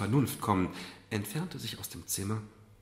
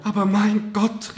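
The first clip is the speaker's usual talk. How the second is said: tearful laugh; 11 semitones higher, 10 dB louder, slower than usual. Acted. Marquise breaks down.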